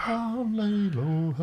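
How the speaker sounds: drawled line from a singer. Retold or imitated. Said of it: "he, like, you know".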